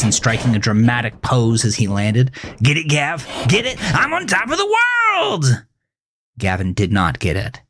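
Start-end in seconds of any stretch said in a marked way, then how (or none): 2.6-3.8 excited teasing. A narrator's reading. Melvin taunting from car roof. 3.9-5.6 very high sing-song, rising then dropping; gleeful repeat. A narrator's reading. Melvin repeats his joke to Gavin, very high sing-song.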